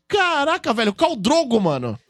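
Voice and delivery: high-pitched retold astonishment; amazed reaction. Fan retelling seeing Khal Drogo walk by, amazed. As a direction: relive the star-struck double take. Reenacts spotting the actor at convention.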